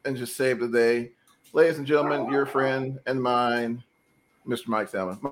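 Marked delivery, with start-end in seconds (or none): 1.5-5.2 broken-up voice over a bad connection; radio breaking up. Real, not acted. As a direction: audio breaking up online. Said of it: "It sounds like you're breaking up".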